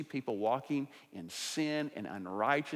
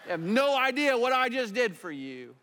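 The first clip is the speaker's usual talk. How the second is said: high, loud, laughing mock rebuke; preacher jokingly scolding Nabal, laughing; 10 semitones higher, 6 dB louder than usual. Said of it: "That's me and my sinfulness".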